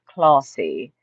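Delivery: "classy" with a long British ah, like "clah-see"; British pronunciation. Retold or imitated. Host imitating her UK cousin, British "classy". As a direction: linger on a British broad a in "classy". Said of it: "When she speaks with her accent".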